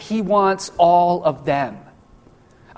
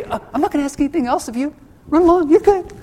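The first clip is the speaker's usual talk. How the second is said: higher, fast, carefree brush-off getting louder; mock breezy Jesus; 9 semitones higher, 4 dB louder, faster than usual. Preacher mocking a lenient Jesus dismissing the rich man, breezy. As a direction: wave him off cheerily, pitch climbing. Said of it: "he doesn't say".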